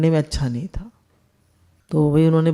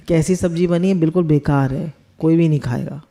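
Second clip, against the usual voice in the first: a lightly voiced dismissive verdict on the food; mild mock harshness, as a careless critic; blunt criticism. Shown as a demonstration. Judging the cooked vegetables, lightly blunt and dismissive. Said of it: "तो बल्कि पहले ये बताइए".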